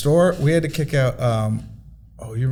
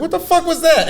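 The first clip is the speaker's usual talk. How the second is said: much higher, incredulous yelp; shocked outburst. Retold or imitated. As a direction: squeak it out in disbelief. Renee reacts to headlock.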